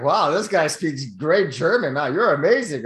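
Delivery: mildly hammed-up impressed onlooker; imitated amazement. Onlookers praising his fake German, mock amazed.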